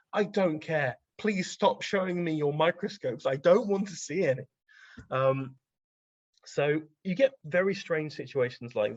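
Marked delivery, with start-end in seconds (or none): 0.1-4.4 annoyed refusal. Retold or imitated. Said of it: "And he's just like".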